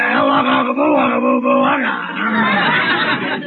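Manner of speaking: drawn-out, silly chanted greeting; lodge ritual greeting. Acted. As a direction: boom out a nonsense lodge salute.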